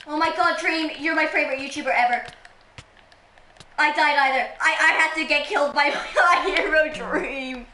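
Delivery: loud mock fan gushing; pretend Dream stan. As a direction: play the starstruck fan, a laugh breaking in. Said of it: "pretending to be a Dream stan".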